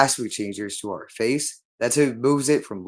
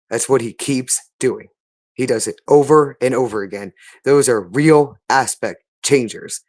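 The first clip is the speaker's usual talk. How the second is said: agitated raised voice; 5 dB louder than usual. Real, not acted. Agitated ranting to Brittany.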